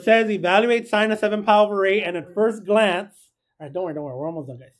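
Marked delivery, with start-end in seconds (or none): none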